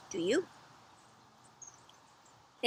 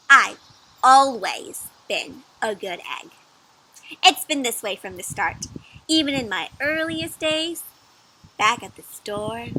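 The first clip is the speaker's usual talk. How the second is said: slightly slower storybook egg; lightly voiced egg; 5 dB louder than usual. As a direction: recall it like a proud egg. Egg character voice.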